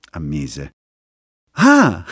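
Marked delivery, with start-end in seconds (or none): 1.5-2.0 snickering exclamation. Acted. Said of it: "Viperella sghignazzò".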